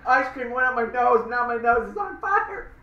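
half laughing, half crying; laugh-cry through the burn. Real, not acted. Spicy ice cream up nose.

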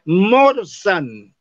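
morsan drawn out slowly, the L turned to an R; slow it down to show the change; slow spoken demonstration. Shown as a demonstration. Teacher showing class how the L becomes R, very slow. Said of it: "la L se convierte en R".

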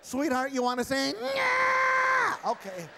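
high, loud puppet voice with gruff no; dummy voice for Jake. Acted. Ventriloquist voicing Jake's dummy, high and loud. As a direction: ventriloquist bit with a stubborn dummy.

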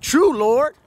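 bow your head and agree; humble Canaanite woman. Retold or imitated. Preacher voicing the Canaanite woman answering Yahusha, humble. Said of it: "And she said".

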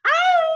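high loud howl; wolf howl. Shown as a demonstration. Teacher howling for the children to join. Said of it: "You wanna howl with me?".

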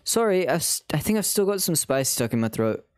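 apologetic line redone in British; British accent. Shown as a demonstration. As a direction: catch the accent back up. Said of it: "wait, he's British".

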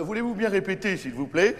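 mock posh. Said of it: "tu dis pas".

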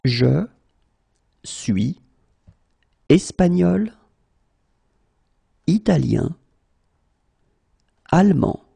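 long pause after every word; slow, word by word. Shown as a demonstration. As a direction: list them out one at a time. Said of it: "teacher drills word by word".

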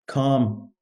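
low, soft and quiet; calm. Shown as a demonstration. Coach showing calm, said low and soft. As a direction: let the word settle down softly.

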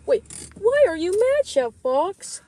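loud high protesting question. Acted. Junior confronts angry Chef Fox.

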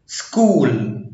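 "سكول" with ch said as a hard k. Shown as a demonstration. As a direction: model "سكول" with s-k at the start. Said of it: "سي اتش اتنطقت كي".

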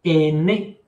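"Aîné" with ai said as E; aîné, E sound. Shown as a demonstration. Teacher repeats the word for students, "Aîné" with E. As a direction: model "Aîné" with ai as E. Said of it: "Una A I suena E".

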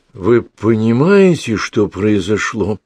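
slow, halting, each word pushed out; shocked young man forcing the words out slowly; struggling for words. Acted. Stunned man to the girl, forcing out each word slowly. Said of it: "Язык молодого человека с трудом выталкивал слова".

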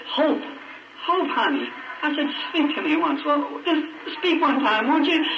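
high, pleading cry to a dying wife; desperate pleading. Retold or imitated. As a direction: beg her to answer, voice up high and strained.

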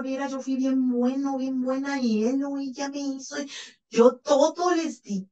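a lightly voiced boastful narcissist; mock the bragging of a self-pitying narcissist; self-praising narcissist. Therapist mimicking a bragging narcissist for her patients, lightly mocking. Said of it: "Una persona psicópata narcisista habla mucho y dice".

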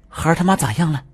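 high, lightly voiced old woman. Grandmother wakes asking about the wife, high and dazed. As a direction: ask as a dazed old granny.

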